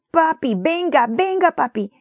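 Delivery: high, loud call for daddy; a scared child calling out in the night; frightened cry. Acted. Feverish boy calls his father about the lion, frightened high cry. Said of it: "gritó Timoteo, temblando".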